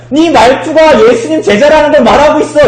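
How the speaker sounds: high, loud accusation; accusing servant girl. Acted. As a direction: confront him as the servant girl. Acting the servant girl's accusation. (여종이 다그치듯 높고 크게)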